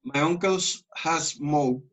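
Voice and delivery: "smoked" ending in a t sound. Shown as a demonstration. Teacher showing the ending of "smoked". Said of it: "esa E D al final es con una T".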